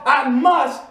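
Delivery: preacher calling the congregation to repeat; call-out declaration. Shown as a demonstration. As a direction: lead the crowd in a slow shout. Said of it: "Say it with me".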